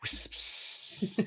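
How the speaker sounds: "Wisps" with a long hissing s, like a snake; drawn-out s like a snake. Shown as a demonstration. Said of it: "Can you say wisps again? You sound like a snake".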